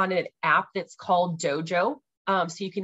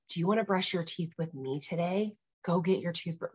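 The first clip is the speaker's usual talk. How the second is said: soft invitation; 5 dB quieter than usual. Retold or imitated. Mom inviting child to brush.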